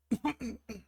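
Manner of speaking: cracking throat clear; throat catching and cracking. Real, not acted. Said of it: "why is my voice cracking?".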